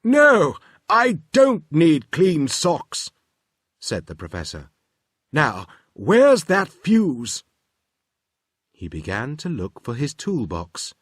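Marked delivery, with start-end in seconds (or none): 0.0-3.1 put-on high, louder, fussy old professor; busy inventor brushing the children off; absent-minded professor, raised and pitched up; Professor Tangle voice. Professor mishears again. 5.3-7.4 put-on high, louder, fussy old professor; busy inventor brushing the children off; absent-minded professor, raised and pitched up; Professor Tangle voice. Professor searches toolbox.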